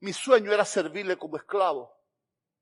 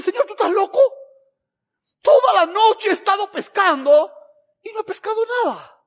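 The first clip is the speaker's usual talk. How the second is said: much higher, louder mock-incredulous Peter; 12 semitones higher, 9 dB louder than usual. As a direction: Peter scoffing at Jesus, pitched way up. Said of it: "Y ahora Pedro le dice".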